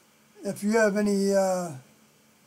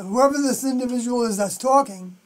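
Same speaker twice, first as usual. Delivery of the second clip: New York accent. Real, not acted. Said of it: "that sounded like my New York accent".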